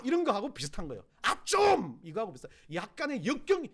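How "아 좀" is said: loud, high burst of annoyance; irritated. Shown as a demonstration. Preacher demonstrating a word with temper in it, loud and irritated. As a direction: cry out as if fed up. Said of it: "역정이 들어간 말".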